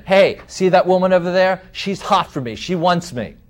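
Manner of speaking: a hint of a cocky party boaster, lightly voiced; boastful party guy.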